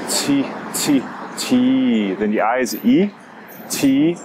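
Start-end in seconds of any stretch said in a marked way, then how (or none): none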